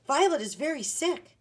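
high, loud, pleading alarm; urgent cry. A narrator's reading. Boy telling the doctor of his sick sister, urgent cry. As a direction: cry out the bad news urgently. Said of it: "he cried".

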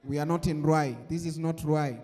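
low, stiff formal English correction; pretend office interviewer. Employer correcting a casual job seeker, low formal voice. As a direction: correct the applicant in a low boss voice. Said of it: "hii ni ofisi".

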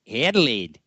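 Adelaide said the Australian way, clipped to "Edled"; "Adelaide" squeezed into two quick syllables, Australian style; lightly mock Australian "Adelaide"; Australian accent. Shown as a demonstration. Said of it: "how do the Australians say that".

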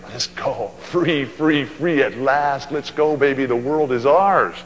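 put-on freed teen whooping, slowing on free at last; jubilant teenager. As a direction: shout it like you're finally free. Teen bursting out of high school.

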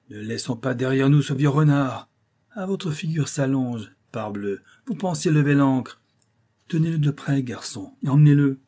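high, loud captain's commands; captain ordering his crew about; domineering captain. A narrator's reading. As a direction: taunt the prisoner, then bark orders. Captain taunts and gives orders.

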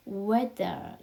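"weather" with the last vowel stretched, r not fully sounded; drawn-out final vowel. Shown as a demonstration. Teacher showing learners how weather ends, pronunciation demo. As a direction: model "weather", drawing out the ending as weh-deo. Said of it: "앞에 모음만 끌어주면 돼요".

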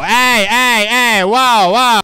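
high, loud startled protest; alarmed yelping. Real, not acted. Gamer gets attacked mid-sentence, alarmed high yelping.

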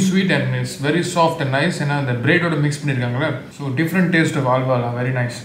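talking while chewing; words muffled by food; mouth full. Real, not acted. Seen 1: Bites halwa at 0.6-0.8, then cut to talking without food.

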